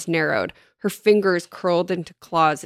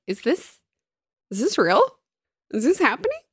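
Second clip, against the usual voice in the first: disbelieving; 6 semitones higher, faster than usual. Retold or imitated. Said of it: "And I was like".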